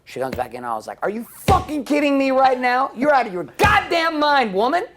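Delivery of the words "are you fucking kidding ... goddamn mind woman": furious shout. Retold or imitated. Fight with wife retold.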